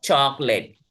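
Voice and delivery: चॉकलेट as CHAAK-let; two syllables. Shown as a demonstration. Teacher confirming the count, चॉकलेट as chaak-let. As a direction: say चॉकलेट joined, with no middle o. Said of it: "दो हो गए".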